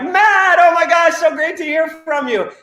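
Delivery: high, loud, gushing hello; excited greeting. Retold or imitated. Team member greeting Matt on the phone, thrilled and loud. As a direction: burst out thrilled to hear from a friend. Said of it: "he was so excited".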